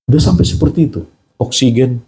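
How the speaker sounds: ordinary delivery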